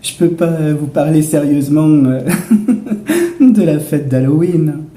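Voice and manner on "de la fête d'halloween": laughing. Real, not acted. Cracking up mid-sentence.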